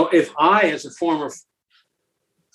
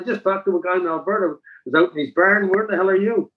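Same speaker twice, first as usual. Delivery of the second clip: a touch of mock astonishment, pitched higher; retold amazement; 7 semitones higher than usual. To the caller over the noise, lightly amazed. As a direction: play up your own surprise, half-joking. Retelling his amazed reaction on phone.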